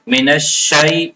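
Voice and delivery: "من الشیء" slow, ya kept short, no stretch; don't draw out "الشیء"; short ya leen. Shown as a demonstration. Teacher showing the unstretched ya in "من الشیء". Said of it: "یا لین میں مد نہیں ہوتا".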